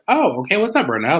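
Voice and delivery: high-pitched "oh, okay" welcome; retold surprised greeting. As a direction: act out greeting an unexpected visitor, voice lifted. Acts own greeting to the visitor.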